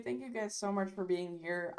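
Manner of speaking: tired, worn-out voice; losing her voice. Real, not acted. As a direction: voice going hoarse from streaming. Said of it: "I'm losing my voice".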